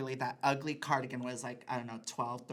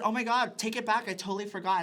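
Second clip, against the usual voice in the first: hammed-up gasp of surprise, much higher and louder; fake shock; 8 semitones higher, 8 dB louder than usual. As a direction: overact the innocent forgetting like an Oscar scene. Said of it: "my Oscar Academy moment".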